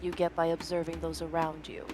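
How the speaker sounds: low, cold, scolding general; stern general. Acted. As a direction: lecture her like a stern commander. General voiced in story.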